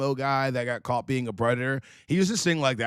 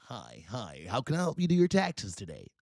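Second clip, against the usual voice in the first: softer, subdued customer-service greeting; mild accountant voice; 3 semitones lower, 5 dB quieter than usual. Retold or imitated. Former emo friend greeting a tax client, subdued politeness. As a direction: play a tame, polite accountant. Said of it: "he talks like this".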